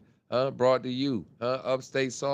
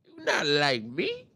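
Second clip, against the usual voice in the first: slow taunting diss. Retold or imitated. Repeated slower in put-on voice.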